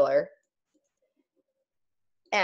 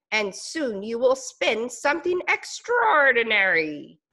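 warm spider; 3 semitones higher than usual. Acted. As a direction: reassure your plump green friend. Spider encouraging caterpillar.

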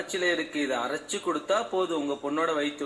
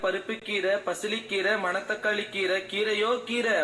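tamil street seller; 5 semitones higher than usual. Acted. Greens seller calling out.

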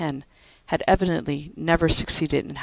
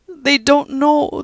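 high, very slow brogue; slow Irish comfort; 10 semitones higher, 7 dB louder, much slower than usual. Acted. Judy comforting Pat about the young, slowly.

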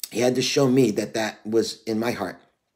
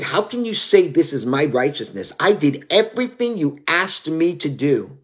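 angry; 4 semitones higher, 3 dB louder than usual. Retold or imitated. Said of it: "I was angry with the Lord".

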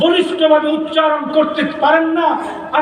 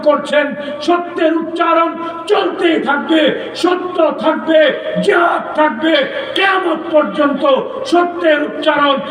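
raised, shouting preacher's cadence building to a cry; fiery preaching; 3 semitones higher than usual. Real, not acted. Speaker rallies the crowd for Mamunul Haque, fiery preaching. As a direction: rouse the crowd, slogan after slogan. Rallying climax of the speech.

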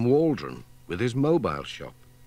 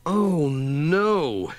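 1 dismayed chorus; 5 semitones higher, 4 dB louder than usual. Acted. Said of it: "said Pat and Katy and Tom together".

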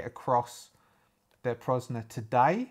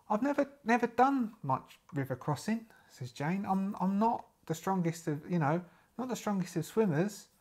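put-on American accent; 6 semitones higher, 3 dB quieter than usual. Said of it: "she says that in an American accent".

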